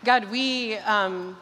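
earnest, hushed prayer voice; a pastor praying over the congregation, hushed and earnest; closing prayer. Acted.

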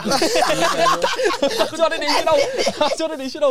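high, loud, slow words squeezed through laughter; laughing. Real, not acted. Agreeing with the Eddie the Eagle joke while laughing hard. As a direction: lose it laughing.

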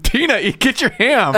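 high-pitched, exasperated movie-nerd call; hammed-up high character quote; Napoleon Dynamite. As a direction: do a goofy, put-upon teenager yelling.

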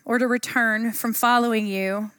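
scripture reading. Acted. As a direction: read it reverently, letting each line land. Reading Ruth aloud.

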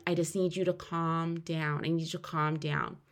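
soft, level imitation of a nurse; retold calming nurse. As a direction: quietly talk a panicking patient down. Nurse soothing her, retold.

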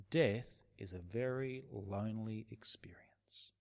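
breathy whisper, barely voiced; hushed whisper. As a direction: whisper it as a grave truth. Sombre point about dying alone.

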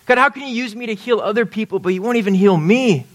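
high, imploring plea to God; pleading prayer. Retold or imitated. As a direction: beg God like Paul begging. Paul's pleading prayer voiced.

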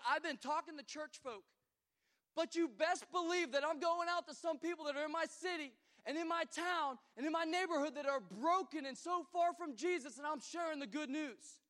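loud, high, fervent preaching as Paul. Acted. Pastor voicing Paul to the congregation, loud and fervent. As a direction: proclaim it like Paul going out to the city.

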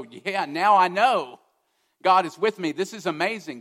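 an overjoyed man who just got his proof; super excited. Pretend. Preacher imagining Gideon's thrilled, excited reaction. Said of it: "he'd be super excited and go".

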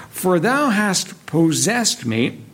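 slow, with weight on thou; emphatic thou. Shown as a demonstration. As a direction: lean on thou as you read it. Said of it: "it's very emphatic".

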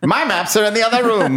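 mock therapy voice. Host repeats the sentence higher.

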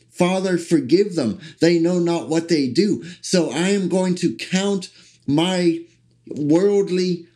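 rising, fervent sermon voice; building preaching. Acted. Preacher declaring his faith to the congregation, fervent build.

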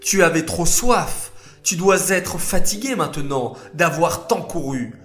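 tender pity. Acted. Moshe finds the thirsty lamb, tender and pitying. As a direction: comfort the little lamb. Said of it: "s'exclama Moshe".

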